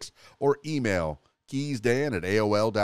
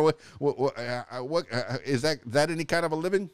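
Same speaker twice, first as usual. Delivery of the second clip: sputtering mother with a mock Jersey accent; higher-pitched questioning in a put-on Jersey accent; 3 semitones higher than usual. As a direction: stammer in disbelief, lightly Jersey-accented. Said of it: "a Jersey accent".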